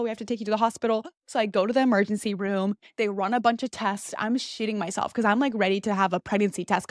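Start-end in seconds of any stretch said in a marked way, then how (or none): 0.0-1.0 rattled off very fast; faster repeat. Retold or imitated. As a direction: repeat it rushed. Mom repeating insistence.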